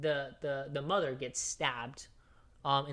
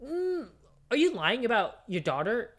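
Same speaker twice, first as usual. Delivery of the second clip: high, sing-song mocking voice; mocking the two-faced friend in a high put-on voice; 7 semitones higher, 4 dB louder than usual. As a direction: mimic her fake concern, much higher. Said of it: "your ass is fucking saying".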